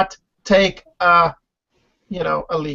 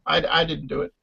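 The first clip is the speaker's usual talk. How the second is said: meek admission; 6 semitones lower, 6 dB quieter than usual. Retold or imitated. Deli's meek reply.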